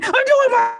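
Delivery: playful wounded pride; mock exasperation. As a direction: protest as if deeply wronged. Exasperated self-defence.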